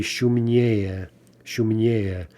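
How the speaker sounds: "шумнее" said as shum-NYE-ye, stress on the first е; stress on the ending. Shown as a demonstration. Teacher repeats the comparative for learners, stressing the ending of "шумнее". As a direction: lean on не in "шумнее". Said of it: "again, two syllables".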